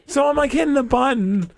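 high, worked-up exasperation; retold mad frustration. Driver unable to start the new car, mad. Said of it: "Now you're just so mad".

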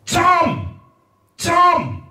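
working-class mum shouting for Tom; bawling working-class mum. Retold or imitated. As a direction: yell up the stairs at Tom. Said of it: "you probably hear things like".

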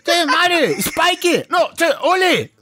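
a father shouting through the family names, even the dog's; dad calling out names. Retold or imitated. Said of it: "enfiou até o nome do cachorro no meio".

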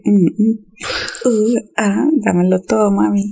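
playful imitation of bedroom talk; mock seductive moaning. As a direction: tease with pretend moans. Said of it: "le suena, no sé, de alguna forma así como que".

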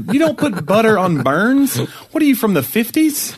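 mock disbelief. Real, not acted. Mocking outdated advice.

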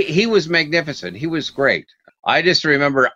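ordinary talk

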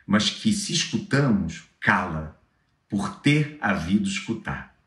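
poem read in Brazilian Portuguese; Brazilian Portuguese accent. Shown as a demonstration. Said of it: "uma em, com sotaque brasileiro".

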